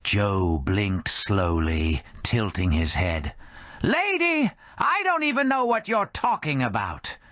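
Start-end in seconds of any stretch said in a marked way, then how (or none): 3.8-7.2 high put-on bartender voice, exasperated; baffled old bartender. Skeleton bartender Joe brushing off the drunk lady. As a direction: push back, bewildered and weary.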